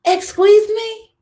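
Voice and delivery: slow, high offended excuse me; drawn-out outraged excuse me. Real, not acted. Vlogger reacting to a husband's order, in a slow offended excuse me. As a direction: stretch it out in disbelief.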